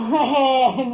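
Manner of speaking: short laugh mid-threat. Real, not acted. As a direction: break into a laugh.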